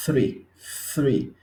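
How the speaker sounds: three with a tapped r, ɾi; English three. Shown as a demonstration. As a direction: say three as ɾi, flicked r. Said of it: "Es importante para los números".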